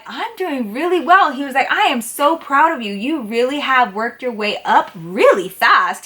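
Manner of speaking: imitated proud praise. Regular customer praising the new waitress, lightly acted pride.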